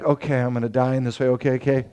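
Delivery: mock resigned mutter; resigned mumble. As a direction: shrug it off under your breath. Peter accepting his fate, voiced.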